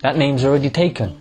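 deep, deadpan system reply; mock YouTube voice. Vlogger voicing YouTube rejecting a username, deep and deadpan.

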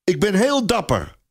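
high small voice calling into the air; a little boy insisting he's brave. A narrator's reading. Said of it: "roept hij dan maar in het wilde weg".

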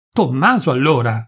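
a restrained cry of alarm; mild cry. Acted. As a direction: call out in sudden fear. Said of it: "gridò Adriana".

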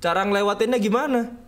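exasperated shout. Real, not acted. Stuck, frustrated asking.

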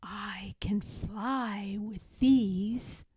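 slow whisper, sharing a big secret; child whispers a secret to trolls. Acted. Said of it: "I whispered, as if it were a big secret".

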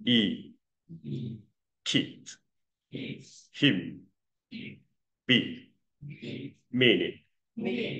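slow, separated sounds, "keep", "him", "be"; careful spaced word drill from "E" to "meaning"; model reading. Shown as a demonstration. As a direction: read "keep", "him", "be" one at a time for repeating. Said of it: "来，跟我一起念".

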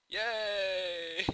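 loud, high cheer of triumph; big victorious yay. Real, not acted. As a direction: whoop with real joy. Objective nearly captured.

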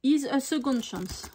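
English motto with a thick French accent. Real, not acted. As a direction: read English as a French speaker would. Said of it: "avec mon accent anglais". (anglais avec un fort accent français)

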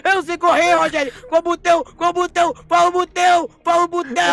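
high, frantic asking; scared gamer screaming which button, in panic; panicked pleading. Real, not acted. Panicked player begging which button.

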